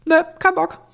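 high shouted heckle; called out. Retold or imitated. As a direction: yell it out like a bored pupil. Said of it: "irgendjemand irgendwie so gerufen".

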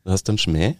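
slightly fancy Viennese lilt; Viennese dialect. Shown as a demonstration. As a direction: demonstrate Viennese with a finer air. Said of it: "also Wienerische".

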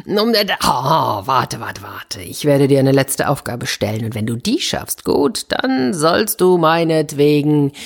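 a lightly voiced king, stern and hesitant, then commanding; the old king stalling, then laying down the task; king's voice. King setting Espen an impossible task, lightly stern royal voice.

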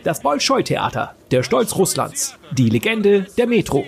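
high, slow showman's announcement, lightly voiced; a hint of a hoarse barker, grand and slow; barker's pitch. A narrator's reading. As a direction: draw out each title like a crier selling tickets. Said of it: "ruft er".

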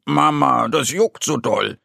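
a touch of a whiny little bear; mildly complaining to mum; lightly voiced whimper of an itchy cub; whining. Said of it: "jammert er".

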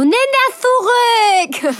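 a furious little sister insisting; outraged demand. Retold or imitated. Sister demands she take it back. (viel höher und lauter, langsam gekreischt)

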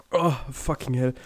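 hoarse after coughing fit; choking. Real, not acted. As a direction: groan through a choking fit. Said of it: "ich hab mich grad fett verschluckt".

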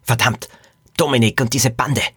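exasperated groan of a curse; mild acted dismay. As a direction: groan at being caught. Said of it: "stöhnte die Regisseuse".

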